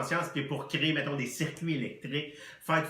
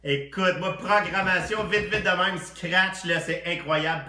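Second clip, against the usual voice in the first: loud excited rush; excited gush; 3 semitones higher, 4 dB louder than usual. Acted. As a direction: gush over it breathlessly. Overexcited tipsy guest.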